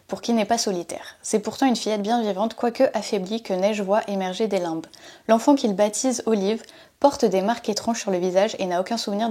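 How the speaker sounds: even story narration from the back cover; measured, lightly dramatic book-summary reading; blurb reading. Acted. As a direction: read the synopsis aloud like a storyteller. Reads a book blurb aloud.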